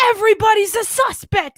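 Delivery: imitating Randy. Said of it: "he just goes".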